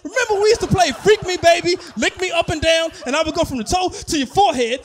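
loud, high-pitched outraged rant; hammed-up furious disbelief, shouting at an ex; losing it. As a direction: blow up in indignant comic outrage. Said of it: "And that's when I lost it".

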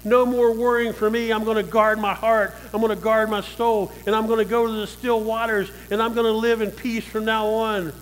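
firm resolve. Pretend. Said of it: "Put your foot down and say".

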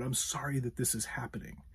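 demonstrating earnest sympathy; understated empathetic apology, stressing sorry; sincere apology. Shown as a demonstration. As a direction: apologise kindly without taking blame. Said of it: "start off with a sincere apology".

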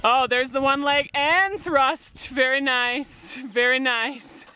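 slow, drawn-out play-by-play praise; mock sports commentary. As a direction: play the admiring commentator, stretching the words. Mock commentary on shoveling demonstration.

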